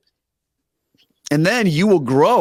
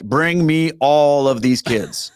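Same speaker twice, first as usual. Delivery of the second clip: eager demand; much slower than usual. Retold or imitated. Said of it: "I'm like".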